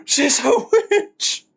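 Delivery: slow, high, triumphant mock verdict; drawn-out verdict. Streamer finishing the witch logic quote, slow high mock verdict. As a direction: stretch witch out as the final proof.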